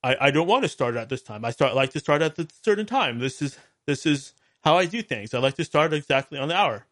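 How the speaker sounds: lightly mocking Canadian accent; goofy Canadian accent. Host mimics guest explaining his start time, goofy Canadian accent. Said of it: "he says in his goofy Canadian accent".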